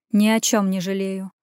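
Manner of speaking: ordinary delivery, nothing marked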